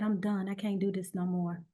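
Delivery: quiet, worn-out giving up; defeated. Retold or imitated. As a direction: say it like you have nothing left. Refusing chemo, recalled despair.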